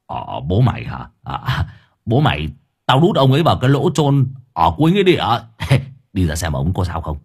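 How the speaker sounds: put-on sheepish old man. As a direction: shrug it off, then laugh. Old man answering, chuckling.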